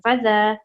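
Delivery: फज़ा with ज़ा held a touch longer; slightly stretched a. Shown as a demonstration. Teacher showing children the lengthened vowel, gently. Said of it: "उसे हम थोड़ा सा खींचेंगे".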